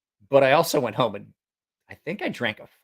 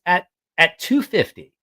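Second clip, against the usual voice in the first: mock doctor voice; 7 semitones higher, 6 dB louder than usual. Doctor voiced in retold story.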